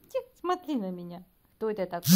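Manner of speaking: loud call to the pet; calling the cat. Real, not acted. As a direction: call out to get attention. (громкий зов к коту)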